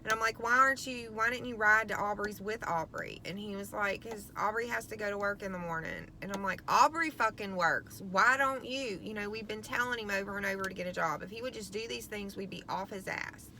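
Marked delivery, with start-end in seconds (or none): 0.4-9.0 exasperated mom. Retold or imitated. Mother arguing with son on phone. 11.2-13.5 muttered under breath. Real, not acted. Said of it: "Okay, that's it, off his ass".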